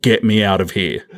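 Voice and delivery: slow, weary mock grumble; bored actress. Voicing the bored actress on set, slow fed-up grumble. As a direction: drag the words out, fed up with the scene. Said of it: "looking off to the other way going".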